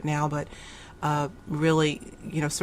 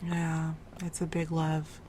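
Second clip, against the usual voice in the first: slow, breathy whisper of agreement; whispered echo; 8 dB quieter, slower than usual. Real, not acted. Host softly echoing the guest's words in a whisper. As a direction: whisper it back, savoring it.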